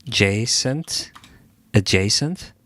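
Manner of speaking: "adjacent" tested as ad-JAY-sent, tune going up; unsure pronunciation. Real, not acted. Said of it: "Is that the right way to pronounce it?".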